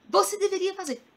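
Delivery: imitating unwanted advice; mock advice-giving. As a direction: push it up high, mocking the advice. Mimics commenters giving unwanted advice.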